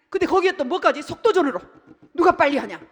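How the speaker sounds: fiery preacher's cry; preaching shout. Real, not acted. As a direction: drive the point home with force.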